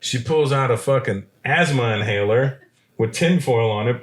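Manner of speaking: usual speaking voice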